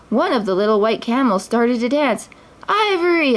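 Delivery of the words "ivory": much higher joyful cry of the name; joyful exclaim. A narrator's reading. Aladdin spots his dancing camel, joyfully exclaiming. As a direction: recognise her with delight. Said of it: "Aladdin exclaimed".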